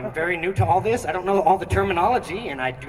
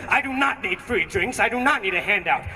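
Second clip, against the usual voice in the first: mock angry yell; 3 semitones higher than usual. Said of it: "'cause he yells at me".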